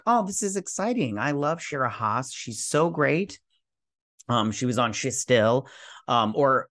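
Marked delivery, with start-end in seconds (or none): 0.0-3.4 higher-pitched retold excitement; excited reaction. Host retells reacting to the casting news, mildly excited. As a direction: gush lightly, as if recalling first hearing the news. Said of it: "because I was like".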